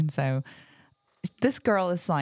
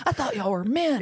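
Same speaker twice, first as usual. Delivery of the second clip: higher-pitched teasing jab; playful, raised-pitch taunt; mock heckle; 7 semitones higher than usual. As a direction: imitate a scornful spectator. Acted heckle at cheering boys.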